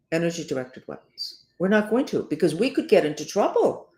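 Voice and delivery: mock the silence with sharp irony; sarcastic jab at the cover-up. Real, not acted. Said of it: "I'm sorry that I can be so sarcastic".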